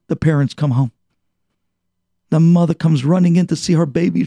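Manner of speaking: ordinary delivery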